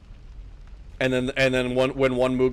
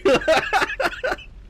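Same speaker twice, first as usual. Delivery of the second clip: high-pitched burst of laughter; real squealing giggle; cackling laugh. Real, not acted. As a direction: crack up at your own joke. Cracks up at own joke.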